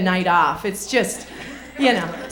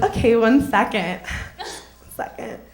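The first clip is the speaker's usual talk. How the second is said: mock store clerk; 6 semitones lower than usual. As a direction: play the fussy clerk calling for a ladder. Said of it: "he goes".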